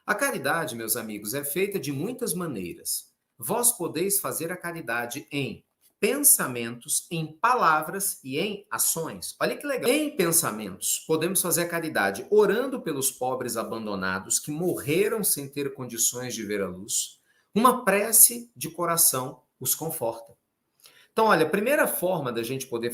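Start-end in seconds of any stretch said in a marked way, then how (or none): 0.0-9.3 slow, measured read-aloud; scripture reading. Acted. Preacher reading on the ways of charity, measured scripture reading. Reads the Gospel passage aloud. 9.9-20.3 scripture reading. Acted. Preacher reading on the ways of charity, measured scripture reading. Reads the Gospel passage aloud.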